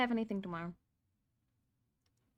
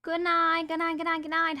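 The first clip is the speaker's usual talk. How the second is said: high singsong goodbye; lilting high farewell; singsong good night; 8 semitones higher, 6 dB louder than usual. Real, not acted. Singsong goodnight to stream.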